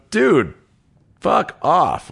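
high, mock yell at the caller; angry retort. Woken before dawn, telling the agent off with a high mock yell.

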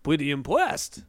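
put-on hammy German accent with w-like r's; cartoonish German accent; Jack Black's bad German. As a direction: imitate a badly faked German scientist. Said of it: "Jack Black doing a German impression".

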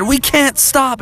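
quick high protest; Froggy. Acted. Froggy sees the police behind, high urgent voice. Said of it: "And Froggy said".

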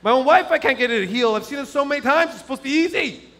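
high-pitched exasperated self-questioning; wrestling inwardly. Retold or imitated. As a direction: agonize aloud over failing his wife. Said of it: "I'm wrestling in my mind".

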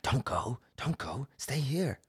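high, swooping spirit voice; imitated clinging spirits. Dark spirits pulling someone back, high coaxing imitation. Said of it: "they were, like, clawing at me".

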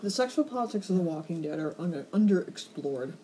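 talking with mouth full; words through a mouthful of cookie. Real, not acted. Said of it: "talking with my mouth full".

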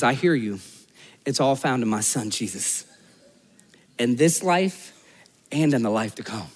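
low, soft, unhurried comfort; quiet, fatherly acted comfort; gentle reassurance. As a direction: reassure tenderly, letting the voice drop. God voiced reassuring the hopeless.

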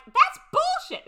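loud, high and drawn-out scoff; sassy retort. Retold or imitated. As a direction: sneer it out with attitude. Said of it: "And Erica is like".

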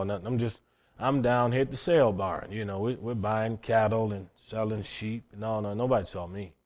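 low, soft brush-off; evasive denial. Retold or imitated. Peter deflecting a bystander at the bonfire, evasive denial. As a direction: play it down quietly, as if nobody important.

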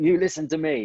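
put-on sheepish American accent for a boss standing up for his rider; half-hearted American accent. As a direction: play Kenny in a reluctant American accent. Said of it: "I won't do the accent 'cause I'm crap at accents".

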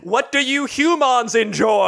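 slow, stiff alien pretending to be human. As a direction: sound like an alien faking small talk. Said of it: "an alien trying to pass off as a normal person".

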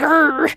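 Ian's Glaswegian growl. Retold or imitated. Host imitating Ian fed up with her talk, mock Glaswegian growl. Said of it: "his Glaswegian came out".

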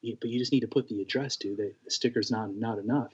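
softly, half under the breath; quiet retold aside to a friend. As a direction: tell him gently, keeping it quiet. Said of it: "I kinda was quiet".

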